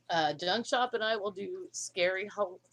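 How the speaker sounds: talking through hiccups; a hiccup breaking the words. Real, not acted. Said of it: "I'm hiccuping".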